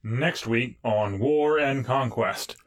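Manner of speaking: slow dramatic promo read; trailer announcer. Pretend. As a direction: announce it like a TV teaser. Show promo sign-off.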